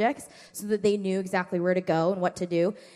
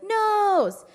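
mild mock kid answer; 12 semitones higher, 5 dB louder than usual. Kids answering.

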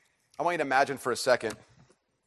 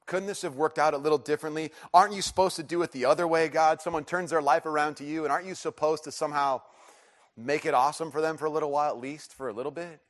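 higher, insistent complaint to God; pleading protest; 4 semitones higher, 4 dB louder than usual. Retold or imitated. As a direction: argue with God, easing off at the end.

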